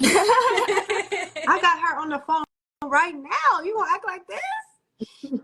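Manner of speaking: laughing through the words, slow and high; can't stop giggling while telling it. Real, not acted. Telling her friend about the call, laughing.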